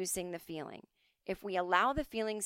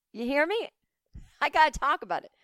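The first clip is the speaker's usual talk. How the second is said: emphatic; 8 semitones higher, 8 dB louder than usual. Real, not acted. Insisting to viewers.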